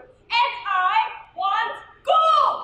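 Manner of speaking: slow, loud demand for gold; demanding shout. Acted. Greedy demand.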